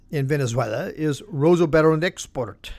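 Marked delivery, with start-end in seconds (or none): 1.2-2.7 put-on rough Russian accent on Rosoboronexport. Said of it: "my Russian accent does need some work".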